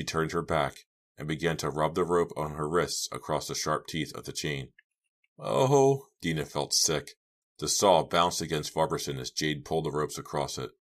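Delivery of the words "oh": horrified "oh". A narrator's reading. Horrified reaction in narrated story.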